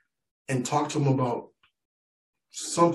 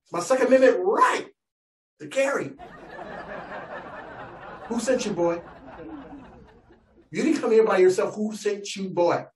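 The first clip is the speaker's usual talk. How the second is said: redneck rancher; 5 semitones higher than usual. Acted. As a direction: play the touchy ranch owner guarding his rights. Comedian voicing gun-toting rancher.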